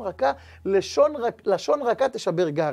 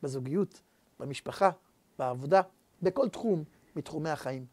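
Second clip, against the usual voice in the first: quiet closing blessing; 4 semitones lower, 6 dB quieter than usual. Acted.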